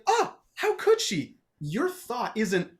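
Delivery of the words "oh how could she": high, slow mock heartbreak; wounded gasp. Dan's heartbroken inner voice over her betrayal, mock wounded. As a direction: clutch your chest, hammed-up. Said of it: "part of you is like".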